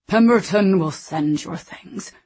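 slow, distant, emptied-out colonel; hollow voice. A narrator's reading. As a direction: say it slowly, as if the life has drained out. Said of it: "he said in a strange, hollow voice".

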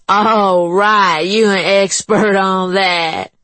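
high, scoffing sarcasm; sarcastic woman voice. A narrator's reading. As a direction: scoff at him. Juanita scoffs.

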